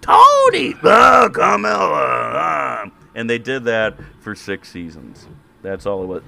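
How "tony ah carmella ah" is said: very high, loud, mumbled gangster shouting; Tony Soprano impression. Mocking The Sopranos to his co-host, shouted gibberish. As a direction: bluster nonsense like a cartoon Tony Soprano. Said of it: "the best Tony Soprano I've heard".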